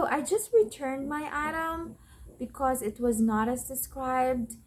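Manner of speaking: a mild hint of an annoyed customer asking for help; frustrated customer. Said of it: "the customer will say".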